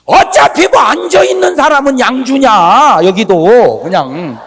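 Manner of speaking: slow, loud preaching. Acted. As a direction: preach it slowly and loudly.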